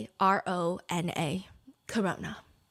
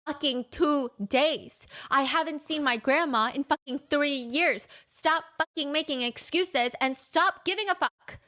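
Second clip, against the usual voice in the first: aggressive advice; 5 semitones higher than usual. Retold or imitated. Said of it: "He does give advice aggressively".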